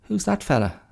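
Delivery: high, curious pig voice; a nosy pig looking up from the dirt; high, squeaky pig chatter. Retold or imitated. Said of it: "they go".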